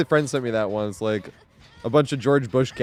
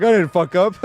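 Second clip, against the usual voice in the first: imitating bluffing denial; 6 semitones higher, 6 dB louder than usual. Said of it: "he just goes with it anyway".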